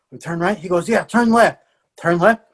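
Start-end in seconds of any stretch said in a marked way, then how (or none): 0.9-1.6 higher-pitched, brisk retold instruction; higher quoted command, falling at the end; confident child's direction. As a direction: imitate a sure little guide. Child giving directions in story.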